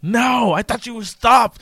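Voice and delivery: high, exasperated mock shout; acted-out annoyed protest; exasperated girlfriend. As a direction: cry out in mock dismay, pitched high. Acting out annoyed girlfriend's reaction.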